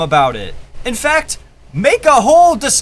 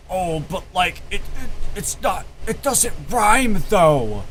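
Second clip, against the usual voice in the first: mocking nitpicker; 3 semitones lower than usual. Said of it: "be like".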